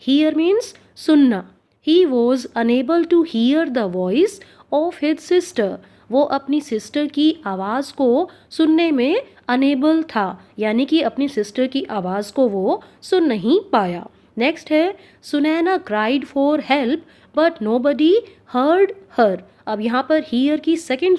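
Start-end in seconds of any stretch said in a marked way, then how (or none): 1.9-5.7 very slow, clear dictation pace; spoken like a teacher dictating; slow example reading. Shown as a demonstration. 15.2-19.4 very slow, clear dictation pace; spoken like a teacher dictating; slow example reading. Shown as a demonstration.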